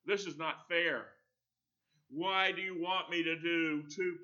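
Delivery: teacher voicing a student's whiny protest. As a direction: grumble like a sulky pupil. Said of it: "many of my students".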